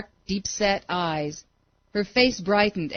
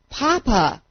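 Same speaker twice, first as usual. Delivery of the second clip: screaming; 5 semitones higher, 4 dB louder than usual. A narrator's reading. Falling boy screaming for his father, loud. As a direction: cry out high and loud. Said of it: "He screamed".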